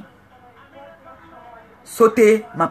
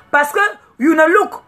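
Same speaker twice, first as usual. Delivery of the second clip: heated rant; 5 semitones higher than usual. Real, not acted. Heated rant about the coach.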